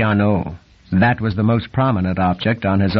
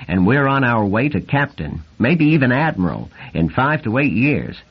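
excited; 2 semitones higher than usual. Acted. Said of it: "Randy was talking a blue streak".

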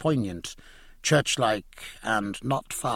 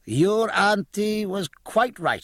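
pleased Jack; 10 semitones higher, slower than usual. Acted. Jack voicing pleased report.

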